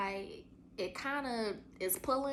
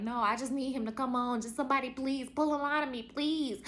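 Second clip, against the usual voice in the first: pleading in labor; 5 semitones higher, 4 dB louder than usual. Retold or imitated. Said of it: "And I was like".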